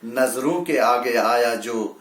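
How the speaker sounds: measured Urdu verse delivery; mushaira-style recital; poetry recitation. Acted. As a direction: recite it as a ghazal line. Recites closing couplet and opening.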